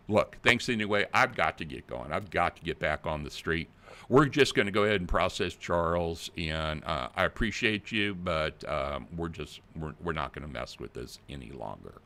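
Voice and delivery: mock yelling officer. Fake officer brushing off the crying grandma, mock yelling. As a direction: hurry her off the line like a bully. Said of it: "Now they're yelling at you".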